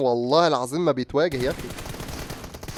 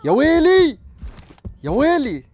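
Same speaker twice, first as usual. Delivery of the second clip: anguished cry; 12 semitones higher, 4 dB louder, slower than usual. Real, not acted. Losing a gunfight, crying out.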